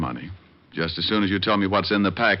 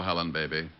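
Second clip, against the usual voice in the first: softer, aching, worn-out voice; sore and worn out; 3 semitones lower, 10 dB quieter, slower than usual. Acted. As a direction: speak as if every bone hurts. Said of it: "You sounded like your arches just broke".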